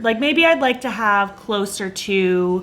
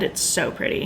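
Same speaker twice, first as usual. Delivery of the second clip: whispering; 7 dB quieter than usual. Real, not acted. Admiring lipstick shade.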